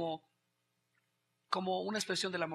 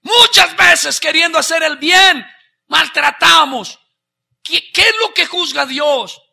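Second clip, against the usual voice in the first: loud, high preaching shout; shouted, high-pitched preaching; preaching at full force; 10 semitones higher, 19 dB louder, slower than usual. Acted. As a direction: drive it home to the congregation.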